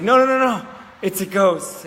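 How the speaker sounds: high, loud burst of alarm; retold panicked outcry. Partner warning of a ghost, panicked cry.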